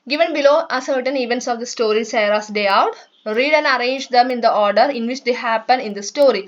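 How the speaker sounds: slow, careful textbook reading; reading aloud. Shown as a demonstration. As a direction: read each word out slowly for the class. Teacher reads textbook English slowly.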